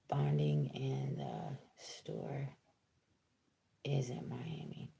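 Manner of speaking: an unvoiced whisper aside under her breath. Real, not acted. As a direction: drop to a bare whisper, as if the words are not for the audience. Whispered aside while reading chat.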